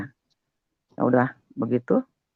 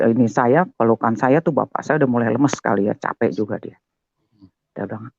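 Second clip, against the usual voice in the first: ordinary talk, nothing marked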